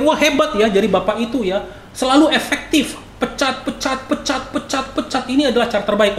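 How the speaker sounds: high-pitched acted wonder; mock admiration. Acted onlookers admiring a firing boss. (pura-pura kagum dengan nada tinggi)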